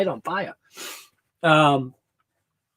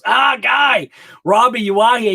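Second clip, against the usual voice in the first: loud, higher call-out to a friend; excited greeting; 4 semitones higher, 4 dB louder than usual. Real, not acted. Greeting a regular who just showed up in chat, excited shout. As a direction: hail him like you're glad to see him.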